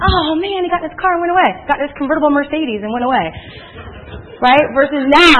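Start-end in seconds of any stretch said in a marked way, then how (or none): 0.0-3.3 disappointed amateur. Retold or imitated. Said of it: "you're like".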